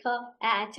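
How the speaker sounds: ka then at, sounded out as separate phonics sounds; phonics sound demo. Shown as a demonstration. Teacher sounding out letters for the children, slowly and clearly. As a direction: break ka, at into clean phonics sounds. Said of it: "stopped decoding words letters by letter".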